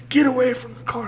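mock cop order. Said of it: "He goes".

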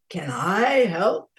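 slow, lilting, kindly question; kindly offer. A narrator's reading. South Wind offering help to the Snow Princess, slow kindly voice. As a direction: draw it out gently, rising mid-phrase. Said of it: "soft, kindly voice".

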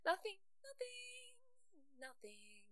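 nervous giggling denial, fading; flustered laugh. Acted. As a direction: laugh it off, trailing away. Covering up the confession.

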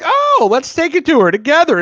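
high, bright mock mom voice; imitating the mom. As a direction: squeak it out like a cheery mother. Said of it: "And she's like".

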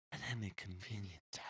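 hushed, airy whisper of a lyric; mock-whispered song line; imitated whisper. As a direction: whisper it like an odd singer. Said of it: "he whispers any convenient time".

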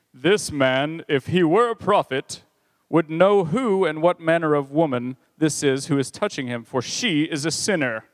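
a light hint of a disapproving Pharisee. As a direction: lightly voice a scornful Pharisee judging aloud. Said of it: "I'll do my best Pharisaical voice".

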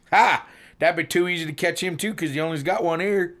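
smug second trainee. Acted. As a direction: crow it like a pleased dimwit.

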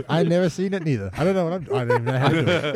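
high, loud attempt at a Boston accent; a bad Boston accent, laughing. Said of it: "horrible Boston accents".

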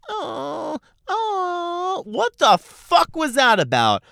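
high wailing fake sob, then a loud cry; mock sobbing wail. Mocking someone crying out.

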